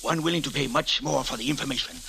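whispering. Acted. Secret meeting behind the crates.

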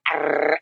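drawn-out "arr" of overload; slow rolling growl sound; imitated overwhelmed noise. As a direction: mimic a flood of messages coming in. Imitating overload while channeling.

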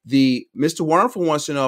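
slow it down for the listeners. Real, not acted. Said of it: "I gotta slow this down and play it back".

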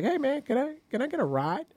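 high, soft, mocking white-guy voice; Nathan impression. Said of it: "That's how I sound to you?".

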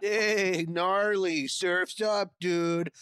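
surfer voice. Pretend. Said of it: "How do you do a surfer voice?".

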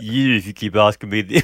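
criminal voice. Pretend. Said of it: "why am I doing his voice?".

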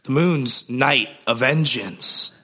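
slow, hammed-up brooding hero; Nicolas Cage. Pitching Nic Cage as Moon Knight, slow hammy brooding line. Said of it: "We need Nick Cage for this".

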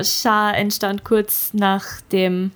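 slow, drawn-out formal reading. Acted. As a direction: read it out slowly and solemnly. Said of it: "ich lese es dir jetzt mit meiner Lesestimme vor".

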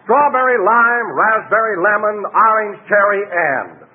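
jumbled fruit list. Shown as a demonstration. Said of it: "I'm going to mix them up and say".

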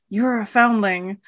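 awed. Retold or imitated.

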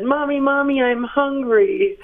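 mock small child whining for breakfast; toddler voice. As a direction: imitate a hungry toddler waking mom. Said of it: "ran into my room and said".

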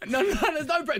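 laughing through a quick denial. Real, not acted. Host laughing off the pressure remark, laughing. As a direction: breaks into laughter mid-word.

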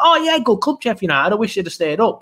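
high, sarcastic fake sympathy; mock pity. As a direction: mimic the smug sympathizer. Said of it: "everyone will be like".

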